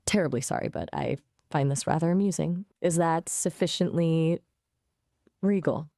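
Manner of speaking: mock-regal British accent; British accent, lightly done; Queen's English. Shown as a demonstration. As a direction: put on a polite, posh Queen's English. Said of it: "do the Queen's English".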